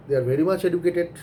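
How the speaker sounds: drawn out, much leaned on; slow deliberate stress on much; slow emphatic. Real, not acted. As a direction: spell each word out slowly for effect. Stressing young generation traits.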